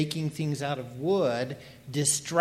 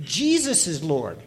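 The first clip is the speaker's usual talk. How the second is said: Jesus given the main emphasis; emphasis falls on Jesus, ahead of "is Lord"; stress on Jesus; 3 dB louder than usual. Shown as a demonstration. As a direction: lean on the word Jesus. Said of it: "put the emphasis on the first word".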